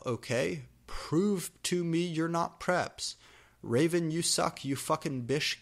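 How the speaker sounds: mock fangirl author rant. Author's note rant read aloud.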